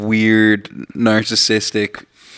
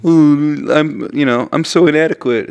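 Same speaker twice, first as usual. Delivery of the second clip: louder, higher mock wallowing; mock self-loathing; 5 semitones higher, 4 dB louder than usual. Podcaster mimicking a self-hating person, mock self-loathing. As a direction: put on a show of self-pity.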